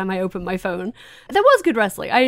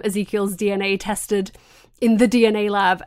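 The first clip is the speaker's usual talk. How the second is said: usual speaking voice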